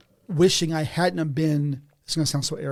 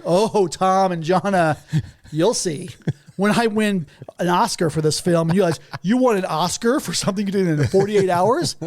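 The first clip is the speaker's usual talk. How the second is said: cocky boast; 3 semitones higher than usual. Retold or imitated. Boasting to friends.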